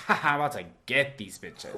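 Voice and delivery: a villain who is sure she will win; scheming villain voice. Retold or imitated. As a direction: plot it under your breath. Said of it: "She's like".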